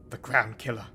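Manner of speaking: hissing snake voice; drawn-out s like a snake. Pretend. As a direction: hiss it like a snake. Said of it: "That was just a little snake impression".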